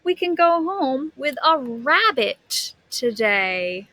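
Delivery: lively storybook reading voice; animated read-aloud for a class; reading to children. A narrator's reading. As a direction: read it like a picture book to kids.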